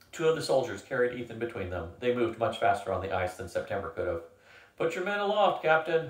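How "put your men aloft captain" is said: higher, raised command; commanding order. A narrator's reading. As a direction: bark the order to the captain. Hunter giving orders.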